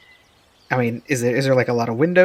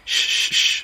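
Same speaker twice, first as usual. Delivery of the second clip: whispered calming shush; soothing shush. Acted. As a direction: hush a scared horse. Calming the frightened horse.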